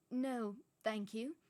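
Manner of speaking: slow, cold refusal. Acted. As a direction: shut him down politely. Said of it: "said Professor McGonagall coldly".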